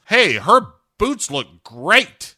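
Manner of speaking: high, loud, slow cartoon cat voice; Grumpy Cat voice. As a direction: play the cat as a squeaky cartoon. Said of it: "Grumpy Cat says".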